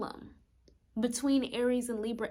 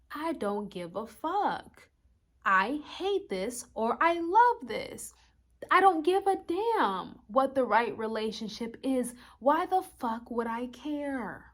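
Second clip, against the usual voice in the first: louder, defiant hothead snapping back; defiant Aries voice; 3 semitones higher, 4 dB louder than usual. Acted. Voicing Aries to viewers, louder and defiant. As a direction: spit it out like you don't care. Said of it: "the Aries energy is like".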